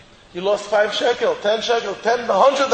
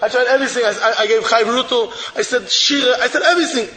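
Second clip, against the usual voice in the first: exasperated laughing plea; 3 semitones higher than usual. Acted. Childless man to Reb Chaim, laughing exasperation. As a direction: pour out every effort with a helpless laugh.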